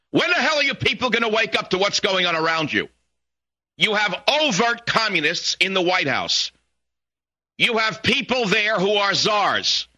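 high-pitched, indignant haranguing; exasperated rant. Real, not acted. Radio host tells listeners to wake up, exasperated.

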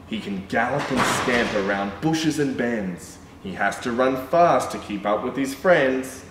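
sing-song picture book reading; reading to children. A narrator's reading. Reading a rhyming dog book to children, sing-song. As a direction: read the rhyme to little kids.

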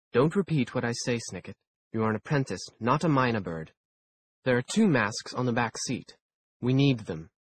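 brisk, scolding chaperone; clipped, impatient older woman; stern mentor voice. Acted. Theodora's lines, louder voice.

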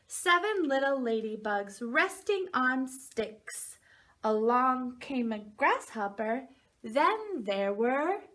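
slow sing-song rhyme, hanging on the last words; reading to a toddler. Acted. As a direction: stretch it out so the child can guess. Reads rhyme, pauses for guess.

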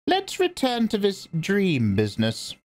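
put-on grave old priestess speaking; stern old Reverend Mother. A narrator's reading. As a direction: lecture her like a severe elder. Old woman questions Paul.

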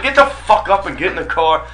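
a fed-up dad with no sympathy; disgusted father. Acted. Father to injured son on the ground, disgusted. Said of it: "It was disgust".

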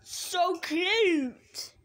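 slow, drawn-out squeal of adoration; gushing. Real, not acted. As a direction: melt over something adorable. Gushing over cute drawings.

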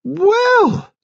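very high, swooping delight; delighted cry. A narrator's reading. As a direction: exclaim it with gleeful surprise. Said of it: "cried Nurse Kettle delightedly".

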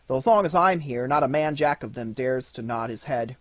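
a hint of a swaggering young soldier-boy; boastful boy. Fritz boasting to mother about his hussars, lightly voiced boy.

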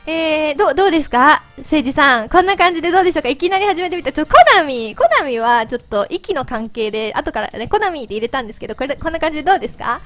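chipmunk voice from helium. Real, not acted. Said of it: "自分で聞いてると声よくわかんない". (ヘリウムガスの甲高い声)

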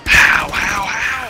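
high, loud disbelieving yell; disbelieving shout. Real, not acted. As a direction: cry out in disbelief. Teammate dies, disbelief.

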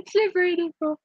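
giggling through the words; barely holding back a laugh; cracking up while saying it. Real, not acted. Giggling at rude cocktail name.

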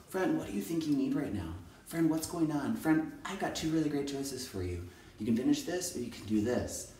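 put-on soft, gentle offer to a child; calm teacher. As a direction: talk a child down softly. Models calm talk with a child.

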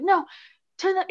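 badly faked European accent of an old grandfather; imitating European grandpa. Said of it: "he's European, I can't do a good accent".

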